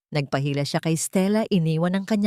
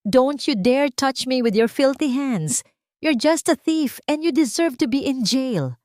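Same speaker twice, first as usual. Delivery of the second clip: high, slow furious yell; 7 semitones higher than usual. Acted. Stella screaming at the fallen old maid, furious. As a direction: spit the accusation at the old woman. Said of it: "Bulyaw ni Stella".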